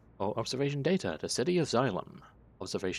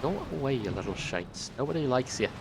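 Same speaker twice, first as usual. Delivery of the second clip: a light put-on Scottish accent that slips toward Irish; playful hammed-up Scottish scolding; mock Scottish; 4 semitones higher than usual. Player scolding little enemy drones, in a mock Scottish accent. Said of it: "I'm trying to be Scottish, not Irish".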